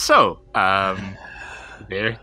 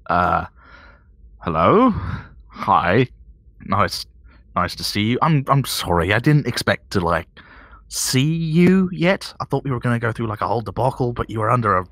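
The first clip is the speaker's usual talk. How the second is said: awkward surprise. Acted. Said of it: "slightly surprised about just finding the boss".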